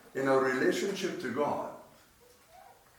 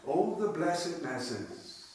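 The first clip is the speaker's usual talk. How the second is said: soft, slow, hushed repeat; quiet slow reading; 5 dB quieter, slower than usual. Shown as a demonstration. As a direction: savour it softly. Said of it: "nice little phrase".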